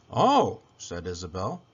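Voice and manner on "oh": higher, lightly voiced little girl; a curious little girl, pitched up; girl's voice. A narrator's reading. Isabel finds something inside the box, higher girl voice.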